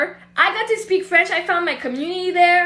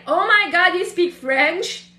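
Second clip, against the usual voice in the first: louder start, stretched rising question; imitated astonished exclamation; retold amazement; 3 semitones higher, 3 dB louder, slower than usual. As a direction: act out a cashier's surprised discovery. Retold cashier's delighted discovery.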